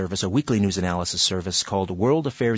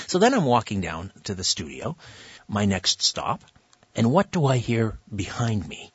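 ordinary delivery

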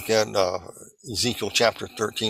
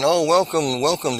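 effusive welcome; 6 semitones higher than usual. Retold or imitated. Imitates relatives welcoming her.

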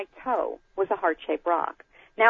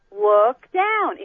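mildly annoyed, a bit higher and louder; impatient nudge to look down; touch of irritation, pitched up; 4 semitones higher, 5 dB louder than usual. Retold or imitated. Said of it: "in an annoyed way".

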